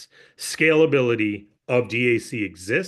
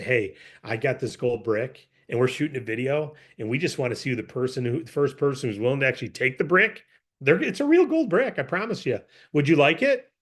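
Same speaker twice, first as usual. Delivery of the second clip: good pitch; 2 semitones lower than usual. Shown as a demonstration. Pitchman offering the brick to strangers, calm and sincere. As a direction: pitch it well, calm and convincing. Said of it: "what if you do it very well?".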